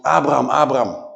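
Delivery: loud, piercing call of the name; urgent calling. Acted. Angel calls out to Abraham, loud and urgent. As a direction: call out to stop his hand. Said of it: "ontzettend indringend geklonken".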